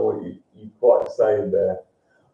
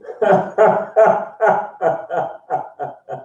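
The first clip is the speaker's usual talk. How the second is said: high staccato cackle; long laugh; 7 semitones higher than usual. Real, not acted. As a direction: peal of high, rapid ha-ha-ha. Reacts to Mike's private message.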